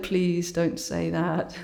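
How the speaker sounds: slow, drawn-out retold plea; mild mock plea. Speaker replying to worried friends, a slow, mildly pleading retort. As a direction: plead slowly, half in jest.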